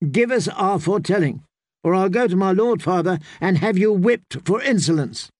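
put-on high, imperious little girl; haughty girl voice. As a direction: demand it like a spoiled princess. Spoiled noble girl demands.

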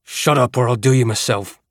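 breathless threat; out of breath, panting it out. Acted. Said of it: "I panted".

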